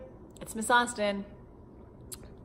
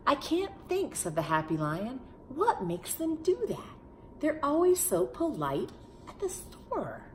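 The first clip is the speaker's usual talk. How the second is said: higher, bewildered lion voice; innocently baffled lion; puzzled lion; 8 semitones higher than usual. Acted. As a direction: wonder aloud why they run.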